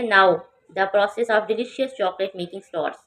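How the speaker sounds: very slow, clearly spaced English; slow model reading. Shown as a demonstration. Teacher modelling the sentence slowly for students. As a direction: read it slowly so students can follow. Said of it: "teacher reads example sentence".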